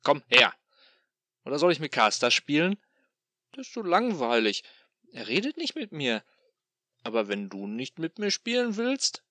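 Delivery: loud, high, singsong demon calling out; taunting demon call. Acted. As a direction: coax him out like luring a pet.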